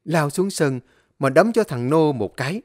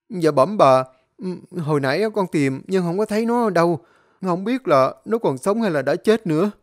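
servant answer; 5 semitones higher than usual. Acted.

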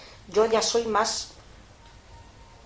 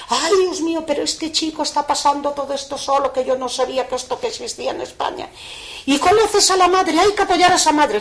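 higher, louder crying plea; tearful pleading; 6 semitones higher, 6 dB louder than usual. Retold or imitated. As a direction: plead through tears for the mother. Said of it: "pero abrazada a mí, pero llorando". (súplica llorando, aguda y fuerte)

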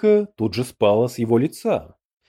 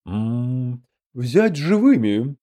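giving an order; much slower than usual. A narrator's reading. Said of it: "приказал Чебалдай".

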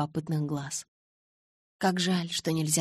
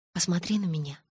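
demanding. A narrator's reading. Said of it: "потребовала я".

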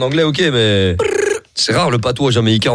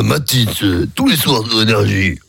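deep radio host voice; 5 semitones lower than usual. Retold or imitated. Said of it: "mais un jour, elle va faire".

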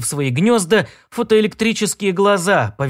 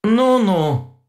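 conciliatory; 5 semitones higher than usual. A narrator's reading. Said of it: "примирительно сказал робот".

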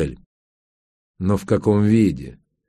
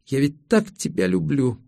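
пьяная укоризна; 6 semitones higher, 3 dB quieter than usual. A narrator's reading. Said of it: "укоризненно".

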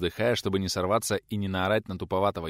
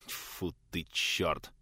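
muttered curse; 3 semitones lower, 6 dB quieter, much slower than usual. A narrator's reading. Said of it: "в сердцах выругался преподаватель".

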